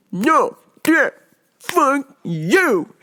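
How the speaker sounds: hammed-up son, each word separated; imitating deaf son. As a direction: play an emphatic refusal word by word. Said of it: "And he goes".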